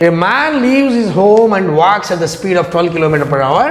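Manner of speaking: slow, careful reading of the question; reading aloud. Acted. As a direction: read each word out slowly. Reads the exam question aloud.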